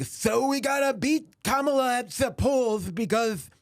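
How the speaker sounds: high lisping cartoon cat voice; Sylvester lisp impression. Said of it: "he sounded like ... Sylvester".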